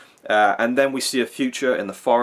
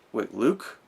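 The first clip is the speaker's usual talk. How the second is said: higher, quicker mock questioning voice; imitated character thinking it through aloud; Rey musing; 7 semitones higher than usual. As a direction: act out her puzzled reasoning in a raised pitch. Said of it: "Is she saying".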